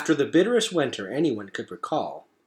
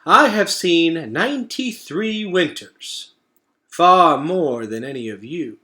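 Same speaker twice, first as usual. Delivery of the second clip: higher, slow, deliberate elder; slow old turtle; 5 semitones higher, 7 dB louder, slower than usual. Acted. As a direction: speak like an ancient turtle. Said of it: "Craig the turtle spoke slowly".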